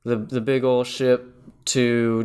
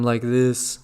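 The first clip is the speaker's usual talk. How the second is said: imitating Hal's voice change. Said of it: "Hal's voice slowly goes from".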